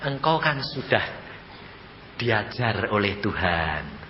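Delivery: lightly voiced solemn deceiver; Satan posing as God. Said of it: "persis suaranya".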